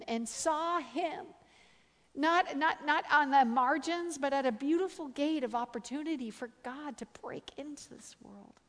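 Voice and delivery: drawn-out, emphatic sermon climax; preaching. Acted. Preacher drawing the lesson from a friend's vision, impassioned preaching.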